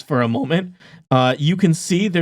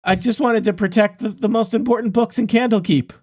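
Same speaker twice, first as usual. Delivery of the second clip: earnest NPC; 5 semitones higher than usual. Acted. NPC pleads defending his plan.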